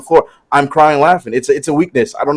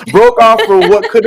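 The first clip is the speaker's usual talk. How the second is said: laughing through it; 6 semitones higher than usual. Real, not acted. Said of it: "I'm trying so hard to get through it".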